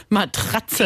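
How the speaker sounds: ironic, slowed "Matratze" with a laugh; air quotes. Acted. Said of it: "Dabei mache ich zwei kleine Gänsefüßchen in der Luft".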